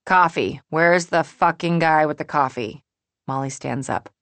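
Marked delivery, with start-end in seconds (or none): 0.1-2.8 loud, irritated complaint about service; impatient demand. Acted. Molly demanding coffee at breakfast, impatient demand. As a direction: demand it loudly, falling at the end.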